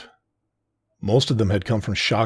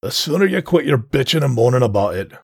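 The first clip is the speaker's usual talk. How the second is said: loud, higher growling dockmaster; growled warning; 5 semitones higher, 7 dB louder than usual. Acted. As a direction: growl it at the grumbling crew. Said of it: "growled Altris".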